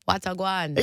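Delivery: light Jamaican patois greeting; a hint of Caribbean patois; Caribbean accent. Shown as a demonstration. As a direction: toss off a casual Caribbean hello. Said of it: "something from the Caribbean".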